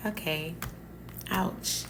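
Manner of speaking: meek okay. Retold or imitated. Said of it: "And I was like".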